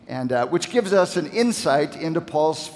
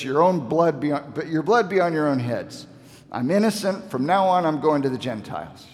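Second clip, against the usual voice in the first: rising, exasperated voice as Paul washes his hands of them; frustrated apostle giving up on his own people; dismayed frustration. Retold or imitated. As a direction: throw up your hands, fed up and hurt. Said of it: "you can hear the dismay and the frustration".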